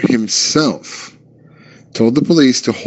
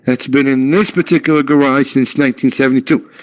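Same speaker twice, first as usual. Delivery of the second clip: higher, mock-furious dog cursing; angry chained dog; 5 semitones higher than usual. Chained dog threatens the man, mock fury. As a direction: rant like a dog straining at its chain. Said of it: "that's what the dog said".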